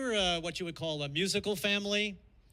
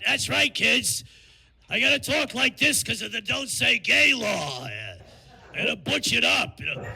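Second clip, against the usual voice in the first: Mickey Mouse; 2 semitones higher, 5 dB louder than usual. Retold or imitated. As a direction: shout it like a theme-park mascot forced to sound tough. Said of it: "Mickey Mouse would be Mickey Rat".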